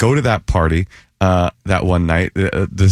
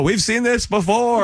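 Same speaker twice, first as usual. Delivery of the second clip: put-on slow, high, knowing old-timer; 13 semitones higher than usual. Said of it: "they go".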